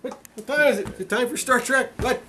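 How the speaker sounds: put-on high eager kid voice; excited kid. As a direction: act like a kid who can't wait.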